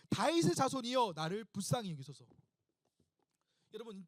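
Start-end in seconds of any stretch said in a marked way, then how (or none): 0.1-2.3 crying out. Acted. Beggar keeps calling Son of David, crying out. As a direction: open on a raised cry, then let it drop. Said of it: "계속 외칩니다".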